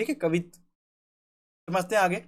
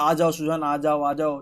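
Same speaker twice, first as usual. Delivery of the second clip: gentle pleading; 6 semitones lower than usual. Shown as a demonstration. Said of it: "विनम्र भाव से".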